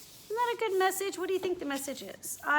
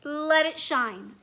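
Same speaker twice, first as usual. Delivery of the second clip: slow, tender; letter urging Firenze to shine; gentle encouragement; 2 semitones higher, 5 dB louder, much slower than usual. Acted. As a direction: stretch each word kindly. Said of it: "Dear Firenze".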